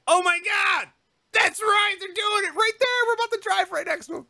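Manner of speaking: high, quickening oh my God; excited realization. Retold or imitated. Comic retelling seeing the couple up close, excited. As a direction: rush it out way up high. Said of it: "I'm like".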